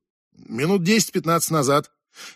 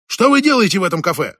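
raised-voice interrogation; insistent demand; 3 semitones higher, 4 dB louder than usual. Acted. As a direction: demand an answer, a touch louder. Interrogator pressing after being told off.

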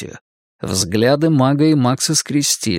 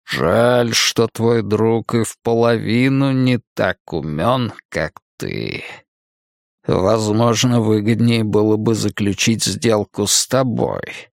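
sinister magician; 3 semitones lower than usual. Acted. Cain taunts Max.

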